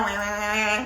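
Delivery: drawn-out "waah" imitating a scolding; mock angry ranting. Preacher imitating an angry spouse, mock scolding noise. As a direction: bleat out a wordless rant. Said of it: "yang marah-marah".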